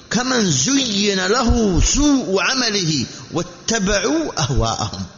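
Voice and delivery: formal scripture quoting, stretched vowels; Quranic verse recitation. Acted.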